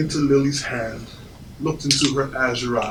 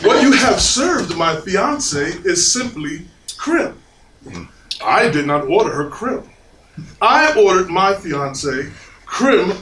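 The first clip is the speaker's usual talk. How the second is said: building frustration; 5 semitones higher than usual. Retold or imitated. Diner demanding his fiancée's brulee from waiter, frustrated. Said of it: "in my frustration with this Parisian".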